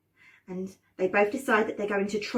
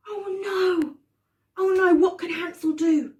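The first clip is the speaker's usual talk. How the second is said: higher and louder, gasping dismay; 7 semitones higher, 4 dB louder than usual. A narrator's reading. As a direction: sell the panic to the kids. Locked door dismay for children.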